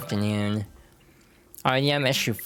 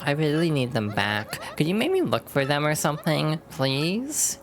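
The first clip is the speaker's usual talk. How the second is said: put-on high bubbly Valley Girl; 4 semitones higher than usual. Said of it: "I feel like I'm losing the Valley Girl voice".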